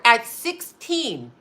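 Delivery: slight lisp on the s sounds. Real, not acted. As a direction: talk through a mild lisp. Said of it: "as I'm lisping".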